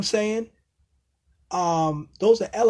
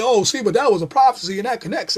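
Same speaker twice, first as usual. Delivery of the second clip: mimicking Bible preachers in a mock sing-song; mock their argument, lightly; mocking quote; 3 semitones higher, 5 dB louder than usual. Mocking the preachers who call it prophecy, lightly voiced. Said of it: "But they try to say".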